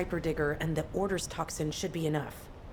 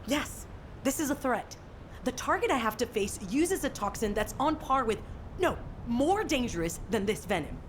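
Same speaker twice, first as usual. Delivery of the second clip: higher-pitched, insistent ultimatum; defiant threat; 4 semitones higher than usual. Acted. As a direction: press the threat home with rising urgency. Threatens Kate with own life.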